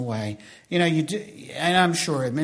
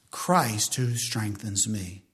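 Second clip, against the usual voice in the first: slow reverent answer; 5 semitones lower, 4 dB quieter, much slower than usual. Shown as a demonstration. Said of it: "Through who?".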